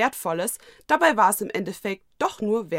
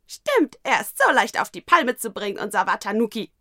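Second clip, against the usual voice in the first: hohe, laute Stimme eines kleinen Wesens; kleines Geschöpf; 3 semitones higher, 7 dB louder than usual. Acted. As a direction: frech und quietschig necken. Das Mokona neckt mit. (hohe Kreaturenstimme)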